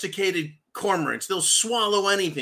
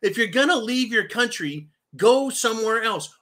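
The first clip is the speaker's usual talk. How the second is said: raised-pitch mock scolding yell; retold yelling; 4 semitones higher than usual. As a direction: imitate a governor telling people off. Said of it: "yelled at them".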